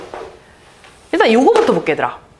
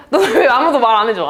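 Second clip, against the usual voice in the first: laughing complaint; 3 dB louder than usual. Real, not acted.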